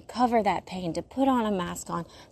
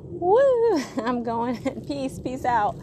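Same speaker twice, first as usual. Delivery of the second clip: squeaky high, laughing farewell; silly high goodbye; 4 semitones higher, 4 dB louder, slower than usual. Pretend. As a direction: wave it off in a giddy high voice. Memory went, acted goodbye.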